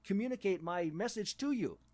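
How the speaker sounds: lightly mocked wordy, formal speaker; overly proper English learner. A learner trying to impress with big words, mock-proper. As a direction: imitate someone showing off proper English, mildly. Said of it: "you want to sound like".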